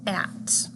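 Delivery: "at" set apart, vowel plus final t; isolated rhyme. Shown as a demonstration. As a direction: say "at" alone as the tail end of cat. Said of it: "and the rhyme".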